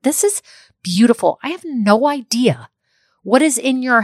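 a happy buyer gushing over the flowers; delighted customer. Retold or imitated. Buyer admiring a flower arrangement, gushing delight.

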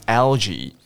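algae with a distinct l before jee; tongue behind the front teeth for the l in algae. Shown as a demonstration. Teacher modelling tongue position, algae with clear l. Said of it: "舌头顶上去".

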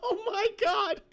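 slow, high Oh my God; amazed. Real, not acted. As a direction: marvel at the insult. Stunned by the insult.

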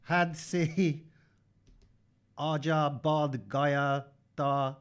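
put-on Urdu line in a German accent. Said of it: "I felt like I had a German accent".

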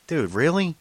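high, exasperated appeal; retold incredulity without raising volume; upset disbelief. Driver appealing to the stubborn cop, upset disbelief. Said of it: "I'm really upset at this point".

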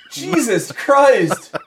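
slow, drawn-out groan of disbelief; exasperated laugh. Real, not acted. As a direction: stretch it out in shock. Reacting to his own drawing.

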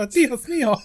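slow, high-pitched Spanish exclamation. Pretend. Playing at high-voiced Spanish.

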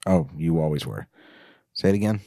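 ordinary delivery

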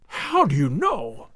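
slow, stunned gasp of amazement. A narrator's reading. Old colonel stunned by the note, gasping. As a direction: breathe it out in shock. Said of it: "he gasped".

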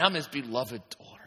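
preacher answering his own question; quiet answer. Shown as a demonstration. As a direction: answer softly and surely. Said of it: "answer repeated".

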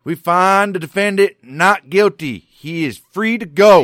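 high, loud and slow announcing voice; mock jury verdict. A host acting the jury foreman announcing the verdict. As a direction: proclaim it like a grand verdict. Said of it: "guess what they say".

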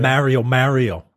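MARIO said with a flat "Mare-io" A; New York pronunciation. Shown as a demonstration. Correcting a co-host on the movie's name, New York pronunciation. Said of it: "say it the way they say it in the movies".

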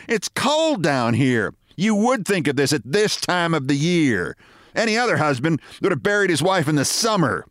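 complaining wife. Acted. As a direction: grumble at the husband the whole way down.

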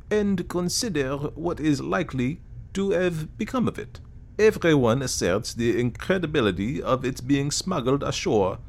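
lightly voiced fussy Belgian detective; Poirot voice.

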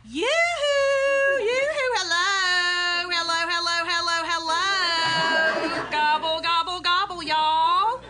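loud sing-song yoo-hoo; calling out. Acted. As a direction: call through the whole house. Calling out entering house.

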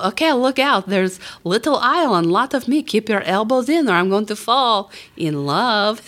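mild performer's call-out; retold yell. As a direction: call down the aisle, playfully. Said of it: "and I always yell".

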